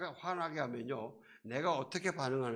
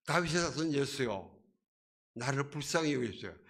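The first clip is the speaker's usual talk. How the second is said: louder, pleading call to Jesus; loud cry for mercy; 4 dB louder than usual. Retold or imitated. Preacher voicing Bartimaeus crying louder over the crowd. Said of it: "더욱더 큰 소리를".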